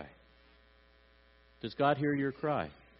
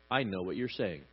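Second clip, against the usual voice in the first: reassuring; 5 semitones lower, 6 dB quieter than usual. Acted. God's reassuring reply, acted.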